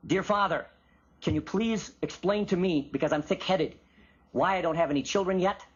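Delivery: polite, measured mock petition; mock formal. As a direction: recite it like a meek, formal prayer. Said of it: "It's not formal".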